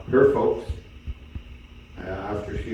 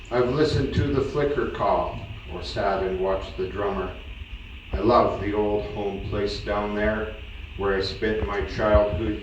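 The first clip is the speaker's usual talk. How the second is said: measured cowboy-poem recital, each phrase opening with a lift; poem recitation. Acted. Son recites his mother's poem about her childhood home, measured recital. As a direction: recite it line by line, settling at each phrase end.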